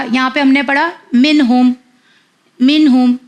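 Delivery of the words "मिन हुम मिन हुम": "मिन हुम" with a short, clear n. Shown as a demonstration. Teacher contrasting with the held n, "मिन हुम" with clear short n. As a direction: say "मिन हुम" without holding or humming the न. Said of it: "मैंने clear पढ़ा".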